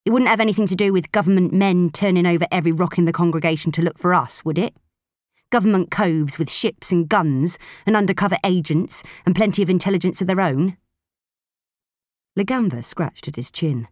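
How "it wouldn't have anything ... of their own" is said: put-on quick, needling, louder old spacer; suspicious gruff woman. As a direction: poke holes in his story. Proser voiced, suspicious.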